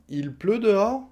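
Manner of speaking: "Il pleut dehors?" high, climbing on "dehors"; rising question tune. Shown as a demonstration. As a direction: turn "Il pleut dehors?" into a question by pitch alone. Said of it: "on va monter le ton à la fin".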